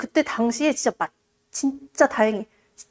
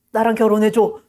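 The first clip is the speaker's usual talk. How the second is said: a touch lower, suddenly manly proposal; man's voice; 3 semitones lower than usual. Acted. Disguised suitor proposes to the young lady, suddenly in a man's voice. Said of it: "갑자기 목소리가 남자야".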